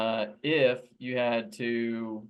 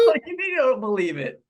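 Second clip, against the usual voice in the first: much higher and louder, laughing disbelief; 11 semitones higher, 8 dB louder than usual. Real, not acted. Co-host laughing at friend refusing the map. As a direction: laugh at the denial.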